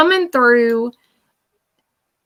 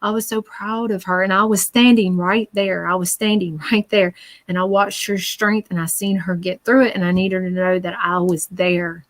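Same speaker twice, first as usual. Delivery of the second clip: sincere spirit message. Retold or imitated. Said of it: "Exactly what he says".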